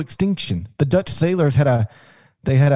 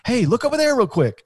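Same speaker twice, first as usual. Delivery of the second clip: high-pitched decoy call, lightly acted; Dutch sailor; 9 semitones higher than usual. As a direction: distract the bird like a sly sailor. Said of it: "the Dutch sailor might go".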